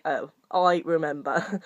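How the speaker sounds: low, slow recalled letdown; deflated realisation. Retold or imitated. Reader recalling meeting Captain Ahab again, deflated realisation. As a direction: let the remembered disappointment sink in.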